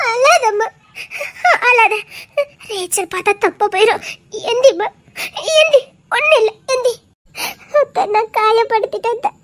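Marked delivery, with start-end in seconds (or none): 0.1-6.9 soothing through her own tears; aunt comforting the sobbing girl while crying herself; tearful comfort. Acted. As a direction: gently lift her up, choked.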